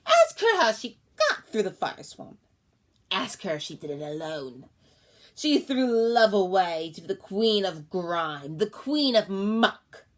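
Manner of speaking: loud, accusing crone; yelling. Acted. Old woman to crowd, loud accusing yell. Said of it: "she was suddenly yelling".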